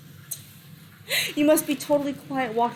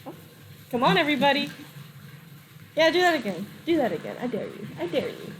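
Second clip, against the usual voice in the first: taunting; 3 semitones higher, faster than usual. Acted. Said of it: "He's like".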